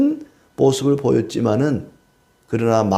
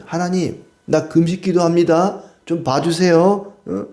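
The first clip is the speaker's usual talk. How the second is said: mock whiny prayer; 6 semitones higher than usual. Preacher mocking a hypocrite praying to God, whiny plea. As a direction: play the show-off faster begging to be noticed.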